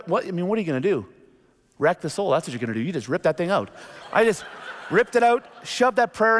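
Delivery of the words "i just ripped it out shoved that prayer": laughing. Retold or imitated. Ripping the shoe sole out.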